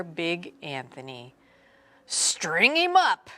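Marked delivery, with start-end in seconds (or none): 2.0-3.3 shout. A narrator's reading. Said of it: "the men of the town shouted".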